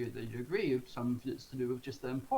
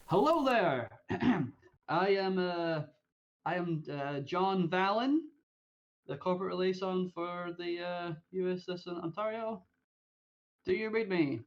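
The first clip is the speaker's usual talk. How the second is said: formal radio voice; 4 semitones higher than usual. Acted. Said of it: "I reply as if it was".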